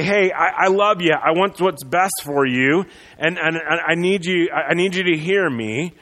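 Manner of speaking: lightly acted gentle plea; a touch of tender sincerity, slowing on want. Pastor voicing a friend who sits you down, mildly gentle. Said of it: "that kind of more gentle tone".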